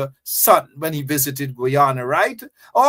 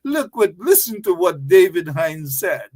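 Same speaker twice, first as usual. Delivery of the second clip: mock whining. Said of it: "And they're crying".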